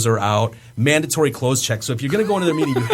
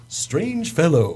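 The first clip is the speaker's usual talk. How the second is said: slow, drawn-out mock verdict; imitated voice-over man; much slower than usual. Voice-over man sums up the visitor afterwards, slow imitated verdict. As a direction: stretch it out, quoting the man. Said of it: "guy that does the voice".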